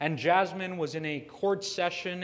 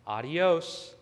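judge's retort; 2 semitones higher, 3 dB louder than usual. Retold or imitated. Judge dismissing the defendant, firm retort. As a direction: hand the word back as a firm dismissal. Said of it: "The judge says".

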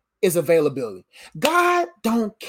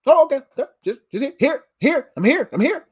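laughing eager reply; 3 semitones higher, faster than usual. Retold or imitated. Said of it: "answering God".

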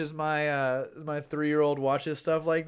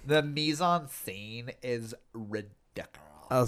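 snooty; 4 semitones lower, slower than usual. Pretend. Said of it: "my, like, snooty".

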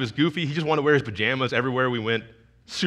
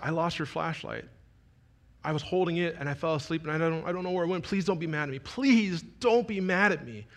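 soft pleas climbing higher; pleading child; 3 semitones higher, 4 dB quieter than usual. Retold or imitated. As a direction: imitate a child begging, stretching out the last pleases. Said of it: "If you could hear the pleas in his voice".

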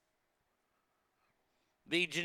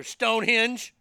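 eager answer; 6 semitones higher, 10 dB louder, slower than usual. Retold or imitated. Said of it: "son answers the parent".

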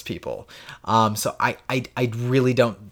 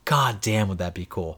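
softer, low-key marvel; hushed awe; 4 semitones lower, 6 dB quieter than usual. Real, not acted. Podcaster daydreaming about old games on Switch, hushed awe. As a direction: say it softly, half to yourself.

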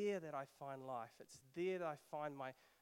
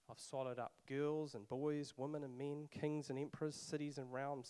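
matter-of-fact lion; 4 dB louder than usual. Acted. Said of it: "It didn't say this as if it was boasting, nor if, as it was sorry, nor as if it was angry. It just said it".

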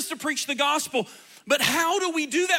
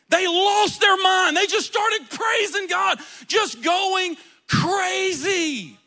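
excited; 5 semitones higher, slower than usual. Retold or imitated. Crowd erupts in praise.

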